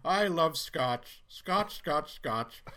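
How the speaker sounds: lightly hammed-up anchorman warm-up; Ron Burgundy. Ron drinking scotch right before broadcast, mock relish. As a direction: savour each word slowly, sing-song. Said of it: "clips of Ron right before broadcast".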